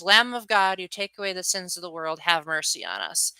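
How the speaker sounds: flat, rushed, bored recital; dutiful and bored. Shown as a demonstration. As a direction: rattle it off like you don't care. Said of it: "It sounds like I'm bored when I'm saying it like that".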